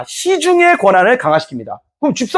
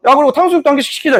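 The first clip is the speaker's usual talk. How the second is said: mock griping; 5 semitones higher than usual. Acted insolent noble griping over order.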